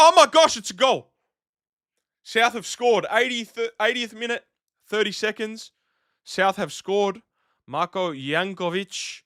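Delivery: high-pitched, excited burst of live commentary; excited goal call. Real, not acted. Streamer reacts to South scoring a goal, excited.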